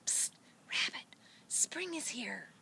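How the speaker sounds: unvoiced ladybug whisper. A narrator's reading. Ladybug whispering in the rabbit's ear, soft and secret. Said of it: "as it whispered".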